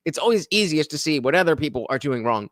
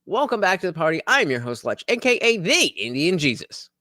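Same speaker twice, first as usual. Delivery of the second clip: streamer intro demo. Shown as a demonstration. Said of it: "let's think if, if I'm like".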